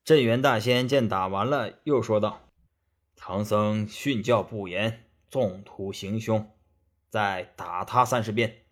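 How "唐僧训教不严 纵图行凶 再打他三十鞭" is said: slow, low pronouncement; stern immortal master. Acted. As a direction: pass sentence slowly in a low, stern master's voice.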